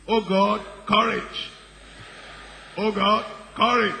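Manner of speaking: high, loud wailing oh God courage; mocking frantic prayer. Preacher mocking people who beg instead of acting, loud high wail. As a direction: ham up a desperate kneeling plea. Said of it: "they're doing this".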